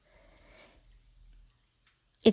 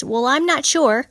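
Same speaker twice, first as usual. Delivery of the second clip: hesitant character line; 5 semitones higher, 4 dB louder, slower than usual. Shown as a demonstration. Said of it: "that person says".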